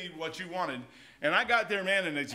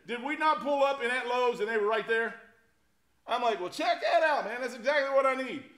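amazed storyteller; 6 semitones higher, 3 dB louder than usual. Retold or imitated. Retold excitement at Lowe's.

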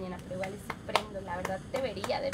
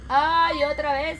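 about to sneeze; 5 semitones higher, 12 dB louder, slower than usual. Real, not acted. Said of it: "se me escapó".

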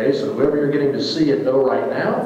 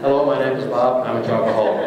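a lightly hammed-up support-group introduction; mock confession; faster than usual. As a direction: play a joking confession at a meeting.

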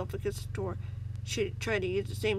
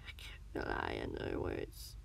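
slow sneer swelling to a loud peak; 9 dB louder, slower than usual. A narrator's reading. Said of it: "the man sneered".

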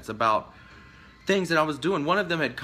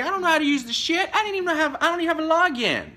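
high and louder, fed-up protest; exasperated venting; 14 semitones higher, 4 dB louder than usual. Real, not acted. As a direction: vent it, pitched up and pushing. Venting at being blamed.

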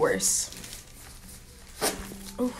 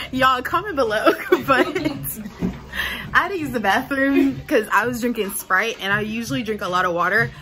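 laughing; 5 semitones higher, 4 dB louder than usual. Real, not acted. Laughing while telling bathroom story.

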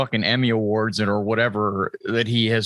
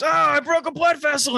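much higher, prissy cartoon baby voice; Stewie voice. Quoting a favorite Family Guy gag to a friend, much higher cartoon baby voice. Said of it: "He goes".

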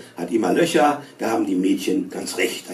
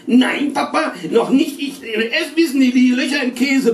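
put-on boy bawling; 12 semitones higher, 3 dB louder than usual. A narrator's reading. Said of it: "ungeheuerliches Gebrüll".

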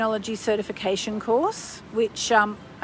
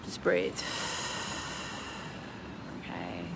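soft breathing cue; 11 dB quieter than usual. Acted. Guided calm breathing moment.

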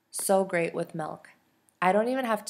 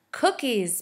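put-on toddler squeals for cookies, not really loud; a hammed-up little yelp of want; mock child scream; 6 semitones higher, 4 dB louder than usual. Little Penny shrieking at the cookie plate, a mild mock yell. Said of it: "Penny screams".

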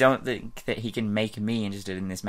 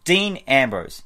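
American accent; 2 semitones higher, 5 dB louder, slower than usual. Real, not acted. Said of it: "I just sounded American there".

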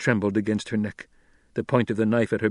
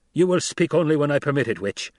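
lightly voiced threat, louder at the start; menacing captor; 5 semitones higher, 4 dB louder than usual. Captor to the woman he holds, menacing. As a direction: warn a captive to obey.

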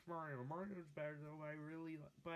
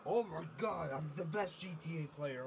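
loud brag; 6 dB louder than usual. Acted. Loud bragging.

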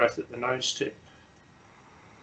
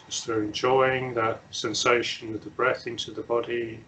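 unhurried meditation guidance with long silences; measured instructions, leaving long pauses to settle; guided meditation; 3 dB quieter than usual. Real, not acted. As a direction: guide them gently into stillness, phrase by phrase.

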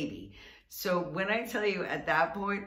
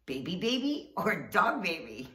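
playful callback; 2 semitones higher than usual. Retold or imitated. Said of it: "made me just totally chuckle".

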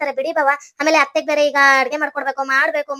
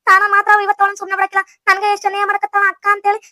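indignant protest; 3 semitones higher than usual. Acted. Wife held by hair, threatening.

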